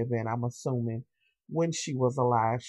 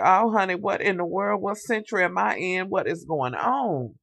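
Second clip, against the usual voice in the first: lightly voiced puzzled woman, pitched up; mock bewildered ghost; 4 semitones higher than usual. The ghost in Lafayette's body asking what century, mock bewildered. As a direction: act out her confusion, higher at first. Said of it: "she's looking like".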